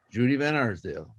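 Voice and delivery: normal talking voice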